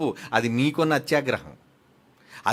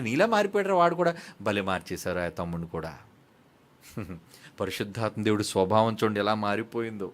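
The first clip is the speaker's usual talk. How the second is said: ordinary talk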